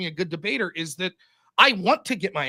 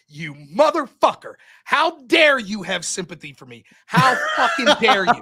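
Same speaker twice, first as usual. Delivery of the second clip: mock outrage; 6 dB louder than usual. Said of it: "I was so mad about that".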